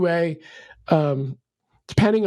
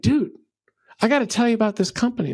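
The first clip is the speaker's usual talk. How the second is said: excited customer; 5 semitones higher, faster than usual. Retold or imitated.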